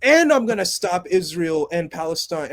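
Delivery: loud, high, pumped-up bro; hyped Superman voice. Retold or imitated. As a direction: fire them up like a hype man. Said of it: "Superman openly coming to you saying".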